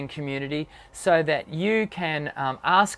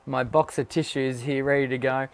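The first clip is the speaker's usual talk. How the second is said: feeling sick; 5 semitones lower than usual. Real, not acted. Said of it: "I'm a little unwell".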